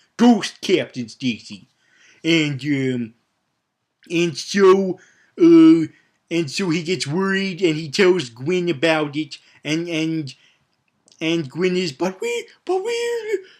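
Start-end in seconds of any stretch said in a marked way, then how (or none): 11.9-13.4 put-on very high, girly voice. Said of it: "that heightened, weird, girly voice".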